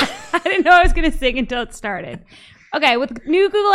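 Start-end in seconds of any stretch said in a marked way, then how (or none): 0.1-2.2 talking through laughter; embarrassed laughing aside. Real, not acted.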